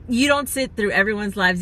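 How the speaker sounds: tearful. Real, not acted. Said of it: "I'm gonna start crying".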